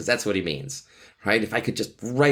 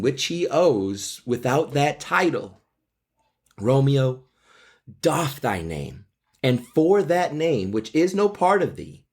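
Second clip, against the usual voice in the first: put-on a young girl longing aloud, read higher; lovestruck Juliet; 5 semitones higher than usual. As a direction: plead to an absent Romeo, lifting the pitch. Reads Juliet, pitch rises.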